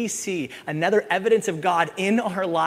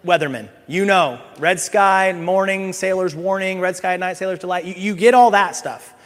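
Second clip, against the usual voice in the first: higher, louder scolding Jesus; rebuking Pharisees; 7 semitones higher, 7 dB louder than usual. Pretend. Jesus scolding the Pharisees for missing the signs, loud rebuke. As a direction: call them out, building in heat.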